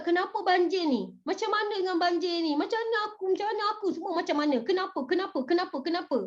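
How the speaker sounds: grumbling complaint. Acted. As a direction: pile up the whys in mock grumbling. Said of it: "Dia bersungut".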